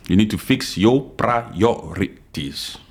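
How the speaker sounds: slow, deliberate, each word laid down; slow emphatic repeat. Real, not acted. Podcaster lecturing critics, slow and deliberate. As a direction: repeat it slowly so it sinks in.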